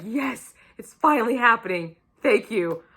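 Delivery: relieved cheer, retold; starts high, settles into grateful relief; pumped. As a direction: celebrate a long-awaited payoff. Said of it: "I was so fucking pumped".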